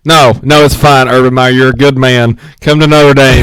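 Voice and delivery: loud, insistent coaxing; mock appeal. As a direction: call out to win him over, playfully. Pretends to plead with the coach.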